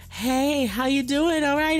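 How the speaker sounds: flirty hello in a put-on voice; alluring woman caller. Woman calling the radio show, mock alluring. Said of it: "she's like".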